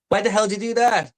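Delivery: hammed-up young John; mock kid protest. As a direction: squeal it like an outraged kid. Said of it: "And he goes".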